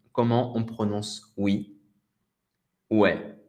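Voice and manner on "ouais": "Ouais" as a short "wè"; everyday French yes. Shown as a demonstration. Teacher answering how oui is pronounced, casual "wè". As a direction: say "Ouais" with an open è. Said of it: "on dit ouais".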